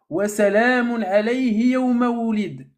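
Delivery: Arabic verse in a measured, lightly intoned recitation; Quranic quotation. Acted. Debater citing the Sourate Maryam verse in Arabic, lightly intoned recitation. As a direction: recite the verse with drawn vowels.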